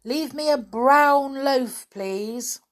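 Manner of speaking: high, loud yelled order; yelling. A narrator's reading. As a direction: yell an order to someone outside. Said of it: "yelled a voice".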